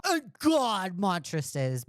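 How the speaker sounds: slow, drawn-out mimicry; mocking echo. Streamer parroting the caller's words about a friend, mocking echo. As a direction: parrot it back slowly in mockery.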